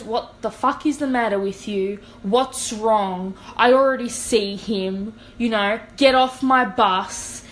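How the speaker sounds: a retold furious bus driver, not a full scream; retold angry rant. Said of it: "screaming a hundred times".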